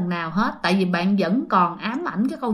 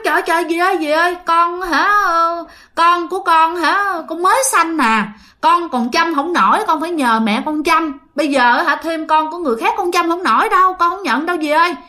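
higher-pitched, mildly panicked pleading; flustered protest; 6 semitones higher than usual. Acted. New mother refusing a strange woman's baby, flustered pleading. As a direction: plead your way out, pitch raised.

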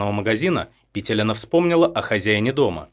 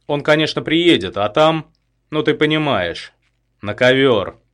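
higher, louder gloating villain; menacing gloat; 6 semitones higher, 6 dB louder than usual. A narrator's reading. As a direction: savour the plan, mocking. Gunman gloats over his plan. (злорадная угроза)

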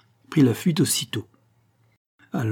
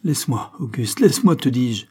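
rising to a pleading cry, louder at the end; woman's cry; 2 semitones higher, 4 dB louder than usual. Acted. Woman struggling against her attacker, crying out. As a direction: cry out to be let go. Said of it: "s'écria la femme".

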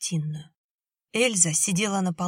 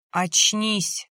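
pleading inner guard; 3 dB louder than usual. A narrator's reading. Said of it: "умолял внутренний страж".

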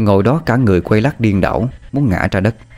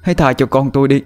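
stammering plea rising higher; desperate pleading; 5 semitones higher than usual. Acted. Mother begs the attacker to beat her instead, stammering. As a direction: beg for your child's life.

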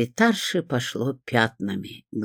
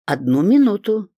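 high, eager exclamation; exclaiming; 7 semitones higher, 4 dB louder than usual. A narrator's reading. Visitor asking the secretary to wait, exclaiming. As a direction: call it out brightly to buy a moment. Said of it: "воскликнула я".

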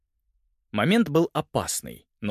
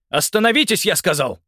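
высоко и громко, властно; обрывает драку; строгий приказ; 8 semitones higher, 6 dB louder than usual. A narrator's reading. Уильям приказывает мужчине. (полицейский громко приказывает мужчине прекратить)

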